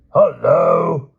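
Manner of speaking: loud, high cheerful call; breezy hello. Acted. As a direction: sing out a hearty greeting. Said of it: "cried Sir Grumore breezily".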